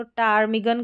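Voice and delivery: टार्मिगन begun on T, no P; silent P. Shown as a demonstration. Teacher showing a rare PT spelling, silent P. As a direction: say टार्मिगन with the P left out. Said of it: "पी को हम पढ़ेंगे नहीं".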